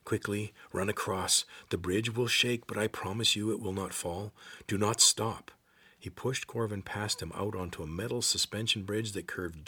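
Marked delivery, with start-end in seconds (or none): 0.0-5.5 urgent. Acted. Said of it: "There was urgency in the gray man's voice".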